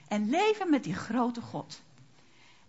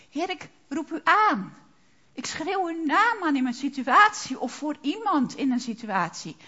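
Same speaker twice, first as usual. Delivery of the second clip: calling on the Lord; 2 semitones higher than usual. Shown as a demonstration. Preacher demonstrating crying out to the Lord, fervent. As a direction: cry out to God in earnest. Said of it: "de naam van de Heer aanschreeuwen".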